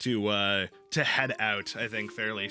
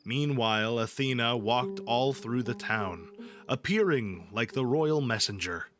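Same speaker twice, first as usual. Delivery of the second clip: slow, measured epic recital; poetry reading. Acted. Streamer reading the Odyssey to chat, measured epic narration. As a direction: read it like an old epic poem, unhurried.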